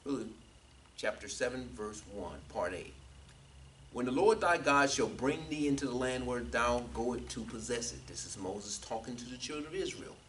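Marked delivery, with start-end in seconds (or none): 3.9-8.1 measured Bible reading; deliberate pulpit reading; scripture reading. Real, not acted. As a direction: proclaim the verse with emphasis on its opening. Reads scripture aloud.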